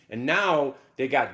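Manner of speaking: ordinary talk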